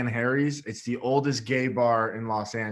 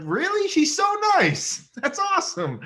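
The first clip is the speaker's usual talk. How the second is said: much higher, squeaky mock gush; 5 dB louder than usual. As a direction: squeal it like a starstruck fan. Mock reaction on meeting a famous singer.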